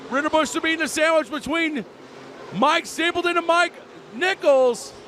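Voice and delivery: high race call, building; excited race call. Real, not acted. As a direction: press the call up as they go three wide. Three wide battle.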